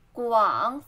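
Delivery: 广 dipping low in third tone. Shown as a demonstration. Teacher breaking down advertisement, low dipping tone on 广. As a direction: let 广 sink low, drawn out. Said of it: "third turn".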